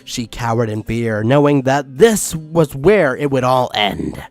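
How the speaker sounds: dramatic storyteller; story narration. A narrator's reading. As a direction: narrate it with mock suspense. Reads the story aloud.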